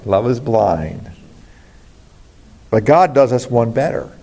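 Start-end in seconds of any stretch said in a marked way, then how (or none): 0.1-1.1 repeated proverb, lower. Shown as a demonstration. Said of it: "That's right".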